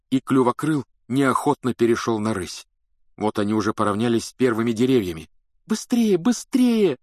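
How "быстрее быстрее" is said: high-pitched frantic plea; urgent pleading. A narrator's reading. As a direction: beg a friend to hurry. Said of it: "взмолилась Гермиона".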